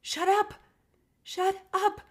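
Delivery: high, loud cry of shut up, rising in pitch; retold outburst. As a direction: yell it at the voice in your head to make it stop. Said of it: "And I just said".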